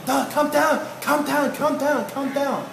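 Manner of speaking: high, insistent calming; urgent calming. Acted. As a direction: talk down a worked-up member. Leader hushing a worked-up member.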